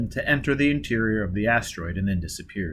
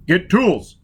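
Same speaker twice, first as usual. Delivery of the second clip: loud, higher shout; 8 semitones higher, 7 dB louder than usual. A narrator's reading. Foyle heading out, shouting. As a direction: call it back over your shoulder. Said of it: "he shouted".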